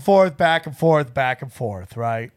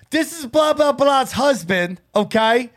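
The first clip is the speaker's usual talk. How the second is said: bad Australian accent. The husband warns Sam off his wife, in a weak Australian accent. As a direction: lightly impersonate the stern Australian husband. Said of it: "Even as bad as you are at accents".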